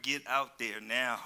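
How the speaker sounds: low, slow firm order; stern parent. Retold or imitated. Preacher playing the parent answering the child, stern. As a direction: lay down the law. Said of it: "Some children".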